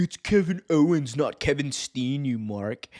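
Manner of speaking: huffy, irate, indignant angry tone. Imitating annoyed wrestling fans correcting the name: imitating angry wrestling fans. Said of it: "you're gonna get the E-drones really mad".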